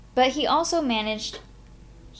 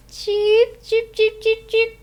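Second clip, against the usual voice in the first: high, loud chicken cheeping; mocking chicken cheeps; 13 semitones higher, 5 dB louder, slower than usual. Tommy mocks a nervous friend with high chicken cheeps. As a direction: cluck like a chicken to tease a friend.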